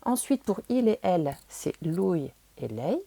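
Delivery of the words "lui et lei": "lui" and "lei" said slowly, each vowel sounded out; every letter pronounced. Shown as a demonstration. Teacher showing learners Italian pronouns, "lui" and "lei" fully sounded. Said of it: "on prononce bien toutes les lettres".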